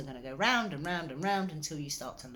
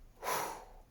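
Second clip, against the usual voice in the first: breathing sigh; 6 dB quieter than usual. Shown as a demonstration. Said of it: "and I'd go".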